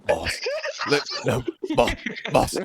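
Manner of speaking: panicked protest. Acted. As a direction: call out to him in alarm. Gerald panics, protests to boss.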